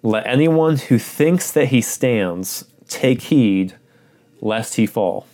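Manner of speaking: measured, solemn reading of the passage; scripture reading. Acted. Pastor reading scripture to the congregation, solemn and measured.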